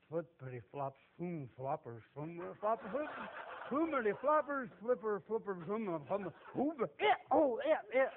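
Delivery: babbled nonsense as if sounding out words; mock gibberish reading. Illiterate sailor pretending to read his Bible, mock babble. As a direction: fumble through the page like a man who can't read.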